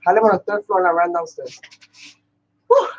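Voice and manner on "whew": breathless whew. Real, not acted. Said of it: "Let me just catch my breath".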